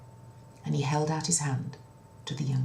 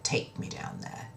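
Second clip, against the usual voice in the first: softer, whispered request; hushed king; 6 dB quieter than usual. Acted. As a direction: whisper it, creeping down. King asks quietly.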